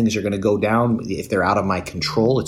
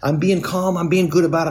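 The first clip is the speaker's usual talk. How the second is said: smug self-praise; 7 semitones higher than usual. Retold or imitated. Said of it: "I'm so proud of myself".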